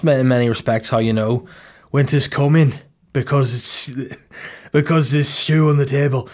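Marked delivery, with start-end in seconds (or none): 1.9-6.3 lightly put-on Game of Thrones character; hint of a mock-solemn fantasy character. Comedian slips into Game of Thrones talk about stew, lightly put-on voice.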